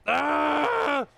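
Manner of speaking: strained cry while lifting; straining with effort. Real, not acted. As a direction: grunt under heavy weight. Lifting heavy part, straining.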